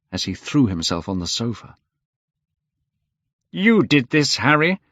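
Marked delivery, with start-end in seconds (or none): 3.5-4.8 higher, louder accusation; angry. A narrator's reading. Painter accusing Lord Henry, high and louder. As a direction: blame him sharply. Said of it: "said the painter angrily".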